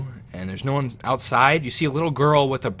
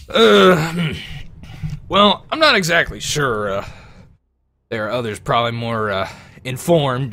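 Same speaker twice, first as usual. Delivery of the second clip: Bob the peasant; 2 semitones higher, 8 dB louder than usual. Acted. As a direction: hem and haw like a nervous peasant. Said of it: "Bob goes".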